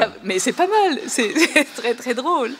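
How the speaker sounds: amused. Real, not acted. Amused by Google translation.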